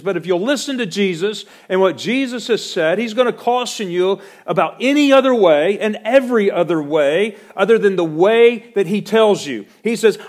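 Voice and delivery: loud, high, ringing pulpit voice; fiery sermon delivery; preaching at full force. Acted. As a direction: preach it out to the whole congregation.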